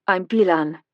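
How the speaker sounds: "Bilan" with the weight on BI, lightly voiced young aide; introducing herself, stressing the start of "Bilan"; stress on first syllable. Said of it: "putting the emphasis on the first syllable".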